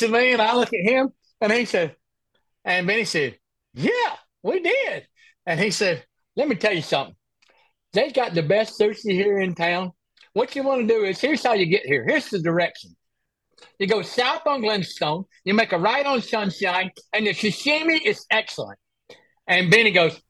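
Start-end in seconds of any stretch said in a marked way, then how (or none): 3.7-5.1 high, slow imitated reply; mock Benny voice. Acting out Benny answering lisping volunteer. 6.3-18.8 imitating a lisping volunteer giving directions; mock lisp. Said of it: "talking back to him with the lisp".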